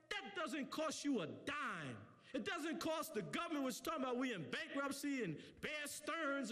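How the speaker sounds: impassioned closing exhortation; fired-up preacher driving it home; preaching. Real, not acted. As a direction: challenge the congregation, building to the final point.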